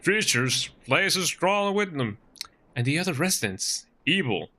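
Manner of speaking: a player's attempted Texan accent. Local warning agent about creatures, Texan accent. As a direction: try a Texan voice. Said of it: "my best Texan accent".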